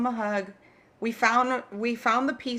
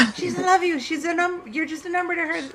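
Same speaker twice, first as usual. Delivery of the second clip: imitating the boyfriend; 6 semitones higher, 4 dB louder than usual. Boyfriend's advice acted out.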